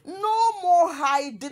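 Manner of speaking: slow, loud, high mock proclamation; hammed-up defiant announcement; dramatic declaration. Mocking Sophia's post as a grand declaration.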